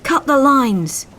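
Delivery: loud, high and slow command; drawn-out yell to cut free; slow, forceful shout; shouted order. Acted. Coxswain ordering after rescue.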